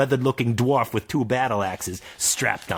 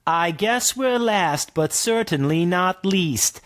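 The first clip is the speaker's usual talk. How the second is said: orc twins; 8 semitones higher, slower than usual. Acted. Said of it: "in unison".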